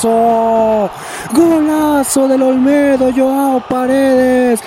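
long drawn-out goal call; goal scream. Real, not acted. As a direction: stretch the goal cry out. Goal call in live commentary. (grito de gol alargado)

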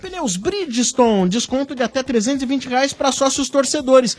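announcer sponsor mention; sponsor read. Acted. (leitura de patrocínio)

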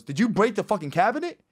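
high, pressing interrogation; mock accusation. Older brother to kid about the cabinet, mock accusation.

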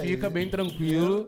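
slow, low command to stay calm; soothing the victim while robbing him; calm robber. Retold or imitated. Robber tells victims to stay calm, slow and low. Robber voiced in a retold mugging.

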